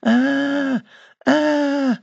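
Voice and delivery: high, thin moaning ah; eerie moan. Retold or imitated. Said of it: "She's just moaning, going".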